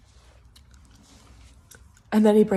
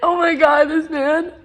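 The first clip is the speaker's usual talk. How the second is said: high, louder, laughing exasperation; 6 semitones higher, 5 dB louder than usual. Real, not acted. Vlogger laughing at her breakup, high and loud. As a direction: laugh it out in disbelief.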